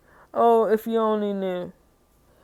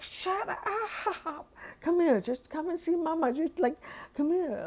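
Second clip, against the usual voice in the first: high, sing-song call to a puppy; coaxing dog voice; 7 semitones higher, 4 dB quieter than usual. Retold or imitated. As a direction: coax the dog over in a high voice.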